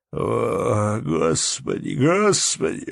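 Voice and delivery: sleepy yawn stretched through the words; groggy innkeeper just waking up; yawning mumble. A narrator's reading. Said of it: "пробормотал хозяин".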